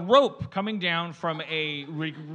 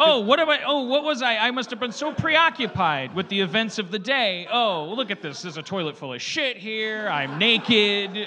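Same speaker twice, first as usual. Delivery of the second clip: dazed forgetful voice. Pretend. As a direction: play it like a confused sleepwalker. Acting out a forgetful person.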